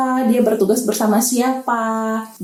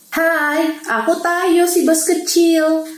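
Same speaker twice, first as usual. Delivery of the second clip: cheerful; 5 semitones higher, slower than usual. Acted. Tayo the bus introduces itself.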